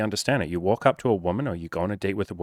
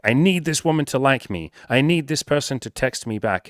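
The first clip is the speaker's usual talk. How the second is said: higher, pleading mock needy guy; 5 semitones higher, 4 dB louder than usual. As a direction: whine it like a clingy guy who needs approval.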